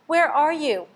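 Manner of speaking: high, loud squeaky cry for mother; a lost baby bat calling out; frightened squeak. A narrator's reading. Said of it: "Stella Luna squeaked".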